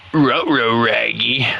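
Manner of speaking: cartoon dog voice, a bit low, strained; Scooby-Doo. Gamer doing a cartoon dog for chat, strained voice. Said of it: "why do I make Scooby-Doo sound like he's straining".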